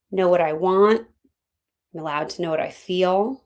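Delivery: measured phrases with long pauses; guided reflection. Real, not acted. Coach guides listeners from anger to confidence, reflective. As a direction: let each thought sink in before the next.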